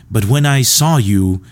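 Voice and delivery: lightly voiced Jack Nicholson, slow; Jack Nicholson impression. Comedian quoting Jack Nicholson from As Good as It Gets, slow. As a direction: drag out hate pills lazily. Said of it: "I can't really do good impression".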